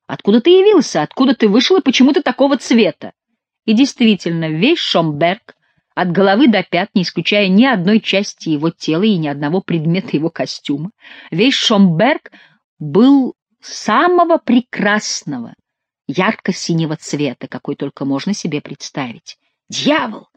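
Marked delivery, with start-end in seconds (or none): 0.1-3.1 high-pitched, amazed questions; astonished questioning. A narrator's reading. King questions his strangely coloured friend, astonished. 19.7-20.3 higher-pitched, mild curse; cried out. A narrator's reading. Dyed nobleman curses his fate, understated cry. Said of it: "закричал он".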